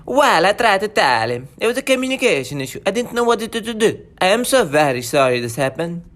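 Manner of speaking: an apologetic Italian accent; sorry-sounding Italian accent. Shown as a demonstration.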